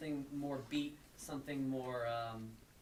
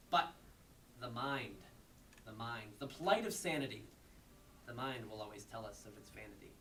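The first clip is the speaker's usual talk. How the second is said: measured recitation sinking softer at the close; poetry reading; 4 semitones lower, 4 dB quieter than usual. Acted. Poet reading a short piece on sanity, measured recitation. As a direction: recite in even phrases, pausing before the turn. Reads short poem aloud.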